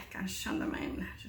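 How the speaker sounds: breathless whispered singing; no air left to sing; out of breath. Shown as a demonstration. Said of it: "je manque de souffle".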